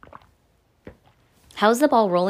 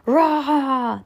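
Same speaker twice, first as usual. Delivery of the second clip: monster roar; 7 semitones higher, 4 dB louder than usual. Acted. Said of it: "The monstrous ball roared".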